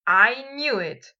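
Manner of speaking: exclaimed. A narrator's reading. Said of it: "Draco exclaimed".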